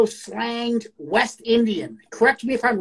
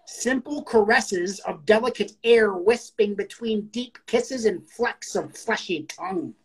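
poetry reading; slower than usual. Acted. Host re-reading the poem on request, slow poetry reading. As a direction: take the verse slowly and let it settle.

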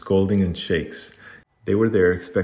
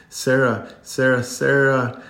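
higher, drawn-out call of a name; 5 semitones higher, slower than usual. A narrator's reading. Upset child calls for Sarah, higher calling voice. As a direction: call for help in a raised pitch.

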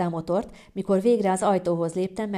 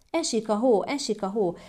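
higher, excited calling out; excited child's cry; 4 semitones higher than usual. Acted. Child thrilled to see snow falling, excited cry. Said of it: "kiabálta izgatottan".

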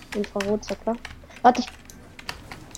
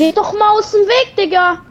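angry shout; 9 semitones higher, 5 dB louder than usual. Real, not acted. Teammate blocking his way.

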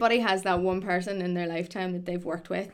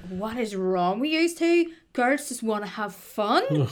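disgusted daughter; 2 semitones higher, slower than usual. Retold or imitated. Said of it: "disgusted, going".

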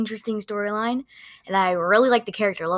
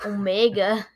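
child's imitation of a New Zealand accent; slower than usual. Child echoing dad's impression of the show, New Zealand accent. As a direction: echo Omega in New Zealand vowels. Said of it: "New Zealand accent".

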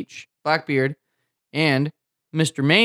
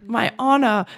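put-on eager young sailor; 6 semitones higher than usual. Young sailor leaving for war.

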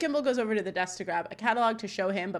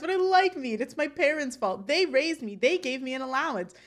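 higher-pitched imitated whine of protest; mock cry; 4 semitones higher than usual. Imitating Corey blaming his parents, high mock cry. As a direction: plead in a lightly hammed-up cry. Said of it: "And Corey cries".

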